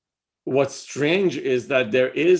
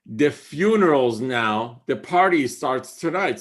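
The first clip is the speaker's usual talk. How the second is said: emphatic poem recital; 4 dB louder than usual. Acted. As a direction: proclaim each half of the line. Recites Rumi line, emphatic.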